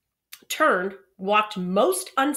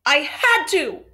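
much higher, loud, slow, near tears; tearful plea; 9 semitones higher, 10 dB louder, slower than usual. Acted. Boy who has been crying explaining himself, tearful plea. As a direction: plead it out through tears.

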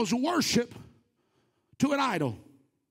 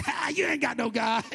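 mock jeer at someone else's god; laughingly taunt, playing at rudeness. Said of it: "Elijah mocked them".

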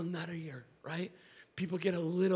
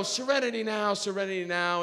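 self-calming mantra; 3 semitones higher than usual. Acted. Muttered self-calming mantra under stress.

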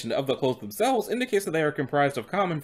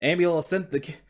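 higher, put-on Cockney horse; Cockney coach horse; 6 semitones higher than usual. Horse guessing where his family went, Cockney accent. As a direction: speak pitched up in a Cockney accent. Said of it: "he's speaking in a Cockney accent".

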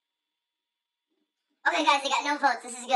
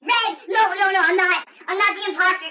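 frantic denial; 4 semitones higher, 5 dB louder than usual. Pretend. Protests accusation of being the imposter.

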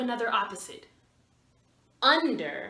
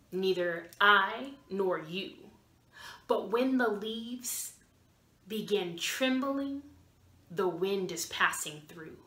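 poem recitation; 3 semitones lower than usual. Shown as a demonstration. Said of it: "a special wind poem".

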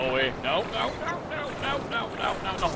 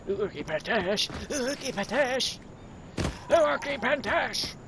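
rising caveman yell; 8 semitones higher than usual. Pretend. Gamer yelling caveman gibberish, climbing higher. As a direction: bellow it like a caveman, building up.

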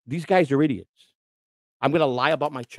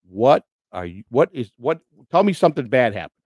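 retold rage; 5 dB louder than usual. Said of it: "He opened the door in a rage".

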